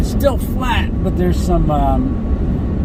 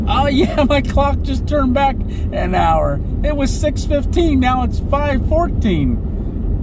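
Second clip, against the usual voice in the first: excited surprise; 8 semitones higher, slower than usual. Real, not acted. Discovers clock gained an hour.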